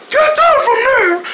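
high-pitched urgent yell; scolding high shout; shouted order. Acted. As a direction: holler up to them to climb down. Ordering someone down from building.

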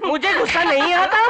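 manic laugh. Acted.

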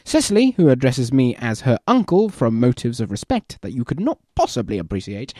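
theatrical Algernon and Jack, lively and mannered; performed play reading. Acted. Two gentlemen trading barbs, hammed-up theatrical reading. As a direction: act out the witty banter with relish. Reads play scene aloud.

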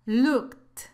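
LOOKED as one syllable ending in a crisp T sound; model pronunciation. Shown as a demonstration. English teacher showing learners the ed ending of looked, careful pronunciation. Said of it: "aquí se pronuncia así".

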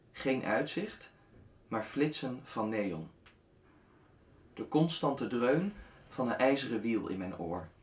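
spaced-out lines with long pauses; unhurried spoken verse, each line falling away; poem recitation. Acted. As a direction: recite your own poem, measured and restrained.

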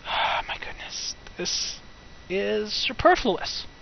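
soft, breath-only dismay; exasperated whisper. Real, not acted. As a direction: whisper it in weary disbelief. Exasperated at the game.

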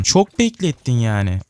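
slow, level, a weary grumble; drawn-out mock complaint. To the slow item, a slow tired grumble. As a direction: stretch it out like a sigh.

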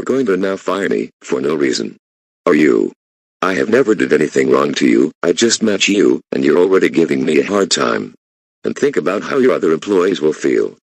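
loud, heated accusations; angry yelling. Acted. Employee yelling at the boss about being fired, loud. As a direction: raise your voice and accuse.

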